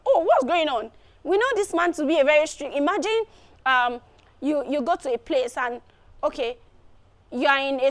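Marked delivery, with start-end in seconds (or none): 0.0-2.8 mildly surprised quote; a touch of astonishment, acted out; surprised onlookers. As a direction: imitate puzzled onlookers reacting. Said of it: "people were so surprised".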